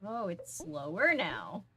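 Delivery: slow, lightly goofy bear voice; a hint of Fozzie Bear. Real, not acted. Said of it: "like Fozzie Bear".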